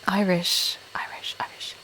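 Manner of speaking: whispered rehearsal to oneself; very soft, testing whisper. Real, not acted. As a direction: whisper it under your breath, trying it out. Muttering while preparing Irish accent.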